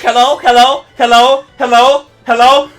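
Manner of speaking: very high, loud squeaky good match; mock the spammers in a silly falsetto; mocking whiny voice. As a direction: streamer imitating annoying players' chat spam in falsetto. Mocking players spamming chat.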